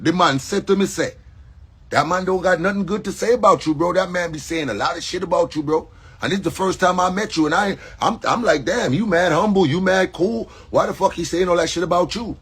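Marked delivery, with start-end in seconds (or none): 1.9-12.4 imitated American English, slightly raised pitch; American accent. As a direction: quote him in casual American slang accent. Quotes a man's American-sounding speech.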